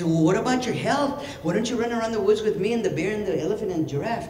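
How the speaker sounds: high-pitched little rabbit; rabbit character. Acted. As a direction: coax a friend in a high rabbit voice. Rabbit urges tiger to run.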